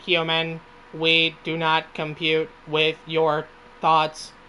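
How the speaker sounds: a hint of a robot, slow and measured. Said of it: "the robot voice".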